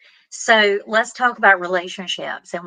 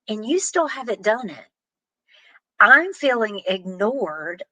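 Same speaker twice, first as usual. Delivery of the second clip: calm honest reply. Shown as a demonstration. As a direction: tell your partner calmly how you feel. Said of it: "instead, what you wanna do is say".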